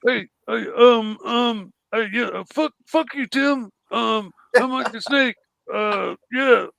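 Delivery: halting, lightly voiced impression; Mike the Snake. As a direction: stammer along with ums and uhs. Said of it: "where the guy goes".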